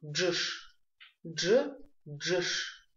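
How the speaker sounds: дж as one lip-rounded d-zh, then джш; fuse d and zh in дж and джш; произношение буквы. Shown as a demonstration. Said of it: "Запоминаем произношение буквы дж". (слитное «дж, джш» с округлёнными губами)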